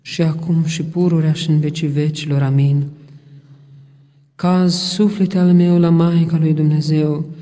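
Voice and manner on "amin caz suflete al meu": normal talking voice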